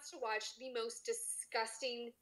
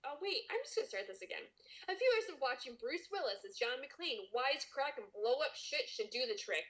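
story narration. Acted. Cohost reads the chapter aloud to listeners, story narration. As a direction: read it like an audiobook.

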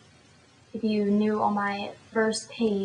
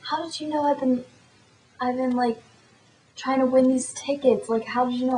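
higher-pitched, mildly indignant retelling; imitated indignation; 3 semitones higher, 3 dB louder, faster than usual. Mad friend asking how she knew, higher mock annoyance. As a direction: act out her annoyed questioning, pitched up. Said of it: "She got so mad at me".

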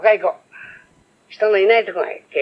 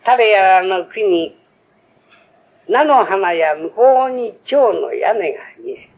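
poem recital; much slower than usual. Acted. Reciting a haiku.

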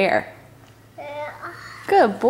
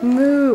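cow moo; 3 semitones higher than usual. Shown as a demonstration. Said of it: "what a cow says".

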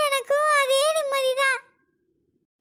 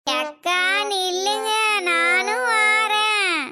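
low, slow tearful plea; crying plea; 5 semitones lower, slower than usual. Acted. Woman begs her sister to wait, low and tearful. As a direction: whimper after her not to leave you. Begging not to be left.

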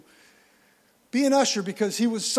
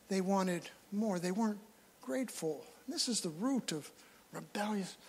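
ordinary talk, nothing marked

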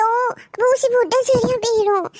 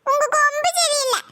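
put-on crying child; 3 semitones higher than usual. Child says why he cries.

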